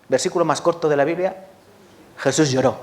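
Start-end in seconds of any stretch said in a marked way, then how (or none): none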